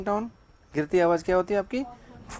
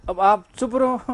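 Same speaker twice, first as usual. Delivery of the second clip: slow, higher and louder order, रहो held long; stern order; 4 semitones higher, 4 dB louder, slower than usual. Shown as a demonstration. Teacher mimicking the wife's order to her husband. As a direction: lay down the order firmly and slowly. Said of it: "order दे दिए".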